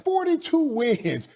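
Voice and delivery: Forty-two slowly, high and hard; stress on forty-two. Real, not acted. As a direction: hammer "Forty-two wins" home, slowly. Repeating the win total for emphasis.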